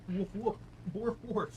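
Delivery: spoken woof woof, playful; hammed-up pretend barks; mock barking. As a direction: bark like a silly doggo. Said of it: "I can do doggo things".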